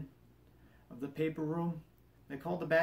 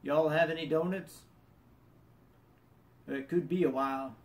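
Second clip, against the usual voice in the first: lightly imitated Southern accent; casual impression of a Southern mechanic. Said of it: "I'll do my best Southern accent".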